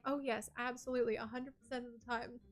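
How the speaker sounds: haughty, slow, drawn-out know-it-all voice; uppity know-it-all. Pretend. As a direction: play a smug know-it-all, looking down on them. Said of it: "so much of an uppity know-it-all".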